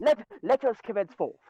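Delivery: lightly hammed-up English pomp; mock English accent. Riffing on the British meme, mock English accent. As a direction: put on a comic English accent. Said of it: "I've honed my English skills".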